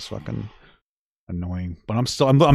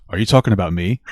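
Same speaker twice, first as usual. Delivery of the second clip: normal calm voice; 5 semitones lower, faster than usual. Retold or imitated. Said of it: "in the most normal human voice".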